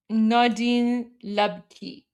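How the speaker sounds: very slow, deliberate reading of a name; careful pronunciation attempt. Shown as a demonstration. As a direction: sound out each syllable slowly. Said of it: "I'm terrible with pronunciations".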